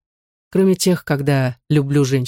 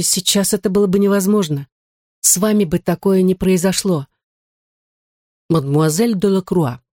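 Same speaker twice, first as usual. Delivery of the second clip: plain reading voice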